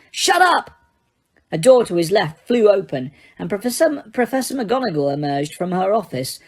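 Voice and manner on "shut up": very high, loud shout; furious yell. A narrator's reading. Harry screaming at Peeves to stop, furious. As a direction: scream it to silence him.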